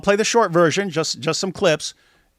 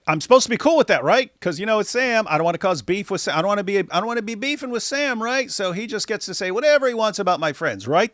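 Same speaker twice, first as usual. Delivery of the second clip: higher-pitched mock agreement; sarcastic; 5 semitones higher than usual. Streamer mocking the idea he should accept insults, sarcastic. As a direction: sarcastically play along, pitch lifted. Mockingly voices the logic expected of him.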